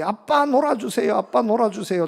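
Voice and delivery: mildly pleading imitation of a little son; a hint of a kid pestering dad; lightly whining child. Youngest son begging dad to play, lightly whining. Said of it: "아빠에게 칭얼거렸습니다".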